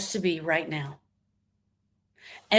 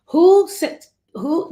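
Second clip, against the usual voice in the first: exclaiming challenge; 7 semitones higher, 7 dB louder, much slower than usual. Acted.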